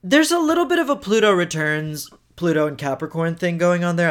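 hiccuping mid-sentence; talking through hiccups. Real, not acted. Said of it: "I'm sorry I have hiccups".

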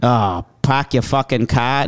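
slow, botched Boston accent. Shown as a demonstration. Guest tries a Boston accent on request, shaky Boston accent. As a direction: attempt Boston and land near Australian. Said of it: "Can you do the accent?".

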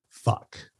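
breathy whispered fuck under the breath; a quiet gutted whisper of dismay; whispered curse. Retold or imitated. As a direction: mutter it in a soft, voiceless whisper. Learns he isn't graduating.

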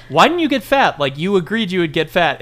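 a director scolding his actor, mock exasperated; mock angry director. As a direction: scold him in a mock rage.

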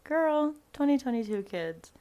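laughing loud disbelief at her sister; excited. Retold or imitated. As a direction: react like the list is hilarious. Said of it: "And I was like".

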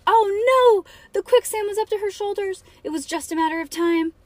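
high, melodramatic narrator in panic; mock alarm. A narrator's reading. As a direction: cry out the peril to young listeners. Mock peril in the story.

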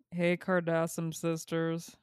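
deadpan, even-toned reading; level, matter-of-fact read-aloud; missing the exclamation. Real, not acted. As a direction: read the greeting without any excitement. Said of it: "It has an exclamation point".

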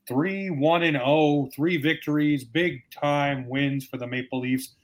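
slow, deliberate rundown of the wins; measured, weighty delivery; emphatic, in earnest. Real, not acted. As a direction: spell out each win slowly, meaning it. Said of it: "I say it like that, not tongue-in-cheek".

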